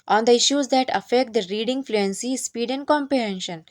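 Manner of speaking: reads the English point out very slowly, word by word; slow dictation reading. Acted. Teacher reading the training point aloud to trainees, slow and deliberate. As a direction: spell out the point slowly, as if for notes.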